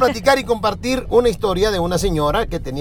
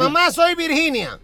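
higher, slow, asking daughter's voice; sweet daughter on the phone; 6 semitones higher than usual. Acted. Virginia phones her mother asking permission, higher and slow. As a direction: ask mom politely, slowly, like a good girl. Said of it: "le dice".

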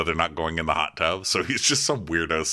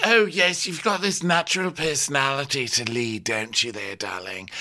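hammed-up fawning Camille; 5 semitones higher than usual. Mocking Camille's flattery.

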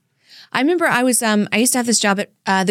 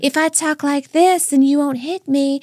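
softened voice; 4 semitones higher than usual. Pretend. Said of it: "you have to kinda soften your voice".

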